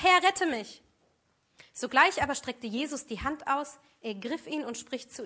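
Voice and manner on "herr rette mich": higher, much louder cry; cry for help. Acted. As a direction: cry out while sinking. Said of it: "schrie er und sprach". (Petrus schreit beim Sinken laut und hoch um Hilfe)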